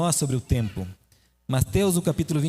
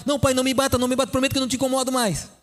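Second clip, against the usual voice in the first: put-on terrified child; 6 semitones higher, faster than usual. Frightened son pleading with his father, fast and high. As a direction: beg not to be hit, in a rush. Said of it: "o filho acordou apavorado".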